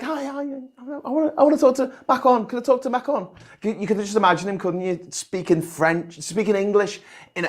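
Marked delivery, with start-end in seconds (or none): 0.0-3.3 higher, fast put-on voice; eager, pushy caller asking for Macron; mocking Boris demanding Macron. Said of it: "So Boris Johnson's like".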